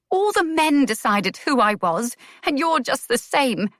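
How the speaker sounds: a woman confronting the man who judged her; shaking anger. A narrator's reading. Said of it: "her voice was shaking".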